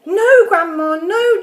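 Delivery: put-on loud, high boyish protest; calling back loudly. A narrator's reading. George calls back to Grandma, loud and high. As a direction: call back like a frantic boy. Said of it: "George called back".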